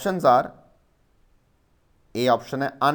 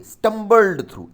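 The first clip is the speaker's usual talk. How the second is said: stumbled through said slowly and loudly, each syllable pressed; slow stressed dictation; 9 semitones higher, 8 dB louder than usual. Shown as a demonstration. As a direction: spell it out slowly for the class. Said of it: "S T U M B L E D".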